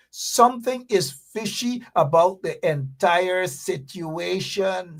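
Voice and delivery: slow, deliberate repeat, leaning on "something". Shown as a demonstration. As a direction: spell it out slowly the second time. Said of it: "I repeat".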